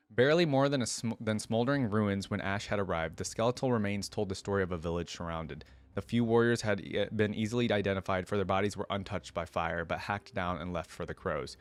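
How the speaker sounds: steady storybook reading voice; narrating a fantasy tale to viewers; story narration. A narrator's reading. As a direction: read the lore aloud like an audiobook. Reads story aloud between comments.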